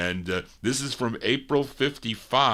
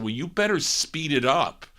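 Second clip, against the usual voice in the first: higher-pitched, insistent retold warning; retold threat; 6 semitones higher than usual. Employer threatening the technician, retold pushy demand. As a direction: lean on them hard, recounting the call. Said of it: "I threatened the guy".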